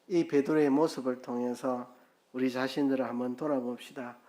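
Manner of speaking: usual speaking voice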